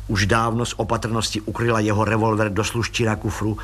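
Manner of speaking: usual speaking voice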